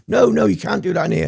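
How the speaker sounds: high, alarmed imitation of the barmaid; shocked barmaid. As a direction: squeak it like the startled barmaid catching him. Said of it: "And she's like".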